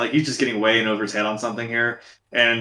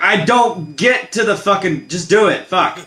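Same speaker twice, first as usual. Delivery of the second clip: mock exasperation; 6 semitones higher, slower than usual. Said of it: "I'm like".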